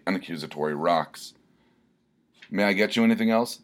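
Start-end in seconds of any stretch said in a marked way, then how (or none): 2.5-3.6 quick, higher waitress voice; imploring waitress. Acted. Denny's waitress asks Filibuster, quick imploring. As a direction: chirp it like a bored server. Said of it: "the Denny's waitress asked imploringly".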